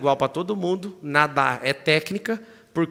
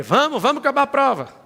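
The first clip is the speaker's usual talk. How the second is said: loud, higher urging push; retold urging shout; 10 semitones higher, 7 dB louder than usual. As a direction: cheer him on to finish. Motoqueiro empurrando o atleta. (incentivo gritado e agudo)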